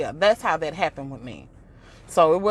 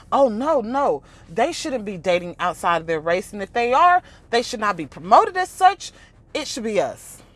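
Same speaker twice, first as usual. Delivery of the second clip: higher, louder mock protest; imitating him; mocking his view; 5 semitones higher, 4 dB louder than usual. Quoting Godfrey's bottom line, mocking protest. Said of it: "you was ready to put us down to say".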